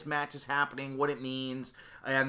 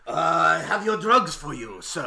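shady salesman voice; 3 semitones higher, 6 dB louder, slower than usual. Pretend. Mock drug dealer bit.

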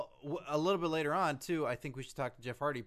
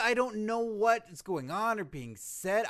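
higher, slow, drawn-out protest; exasperated protest; 7 semitones higher, 5 dB louder than usual. Acted. Co-host telling Steve he cannot understand, exasperated. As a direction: stretch the words out in exasperation.

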